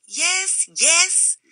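high, sharp interrupting yes yes; edged impatience. A narrator's reading. Stranger cuts Rufus off, sharp and high. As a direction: cut him off impatiently. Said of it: "cut in the edged voice".

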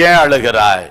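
low, gently falling voice; gentle questioning. Acted. Jesus asking a weeping woman, gentle questioning. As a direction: ask it tenderly, dropping low.

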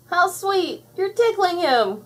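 very high, gushing squeal; merry delight. A narrator's reading. Bubbles watching the monster giggle, merrily delighted. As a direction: coo with delight, slowing down. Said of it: "laughed Bubbles".

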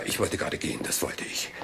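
a sheepish whisper as he gives in; breathy whispered aside under his breath. Acted. Detective mutters aside, leaving.

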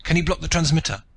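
high, loud and breathless; panted urgent question. A narrator's reading. Father urging his daughter to stop the fleeing toymaker, breathless. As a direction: ask it fast, out of breath. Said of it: "Rakhal panted".

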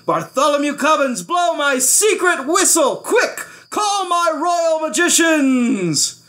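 very high, loud, gleeful orders; triumphant royal cry, stretching the end; excited commanding king. A narrator's reading. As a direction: shout orders with mad delight.

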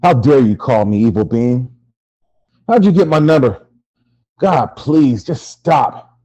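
loud, indignant rebuff. Acted. Victim answers his tormentor's call, loud and indignant. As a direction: fend the caller off forcefully. Andy confronts Chucky on phone.

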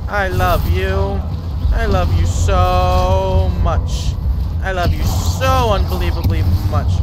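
drawn-out, slow I love you, sarcastic; slow mock adoration. Real, not acted. To the spider matriarch, slow mock adoration. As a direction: stretch every word like a mock love letter. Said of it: "slow sarcastic love to matriarch".

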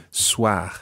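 SOIR ending in a throaty French R; guttural R. Shown as a demonstration. Teacher showing the R at the end, guttural. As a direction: let the R of SOIR scrape in the throat. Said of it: "a guttural R at the end".

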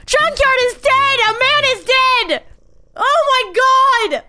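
high, slow, hammed-up yelling at Z; play-furious, dragging out every accusation; mock outrage. Mock outrage at Z wrecking ship.

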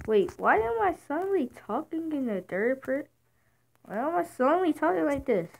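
high, loud dramatic narrator; puzzled, in a hammed-up narrator's voice; story narrator. Player baffled by their own sudden voice, narrator style. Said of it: "like a narrator or a story".

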